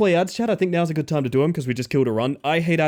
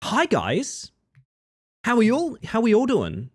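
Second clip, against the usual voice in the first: bright, higher customer service greeting; 10 semitones higher than usual. Pretend. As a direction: put on the polite service voice. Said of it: "their customer service voice is like".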